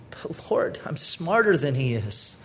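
hushed, mock-smug aside; whispered excuse. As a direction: breathe it like a secret boast. Wife's proud excuse, mock voice.

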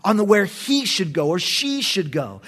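"he" singled out, echoed on "she"; stress on "he". Shown as a demonstration. Preacher showing the Hebrew emphasis, stress on "he". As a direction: lean on "he", then on "she". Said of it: "puts the emphasis on the word he".

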